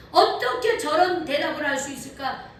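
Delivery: put-on a preacher marvelling out loud at the boy's answer; amazed question. Shown as a demonstration. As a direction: ask it again, full of wonder. Preacher repeats astonished question.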